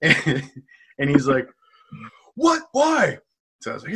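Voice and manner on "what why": high indignant protest; indignant why. Retold or imitated. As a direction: act offended and baffled. Regular protests being thrown out.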